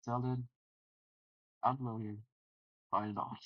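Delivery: measured show-closing announcement; announcer sign-off. Real, not acted. Host signing off until the next tournament, measured announcer delivery. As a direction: close the broadcast in a composed announcer voice.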